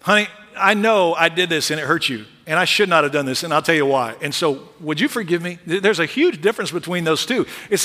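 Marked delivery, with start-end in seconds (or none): 0.0-5.6 sincere apology. Shown as a demonstration. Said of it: "real confession comes when we say".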